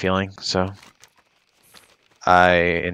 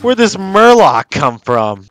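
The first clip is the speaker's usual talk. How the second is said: high, loud frantic squeal; panicked squeaky voice; 9 semitones higher, 4 dB louder, slower than usual. Pretend. Mobs keep spawning, mock panic.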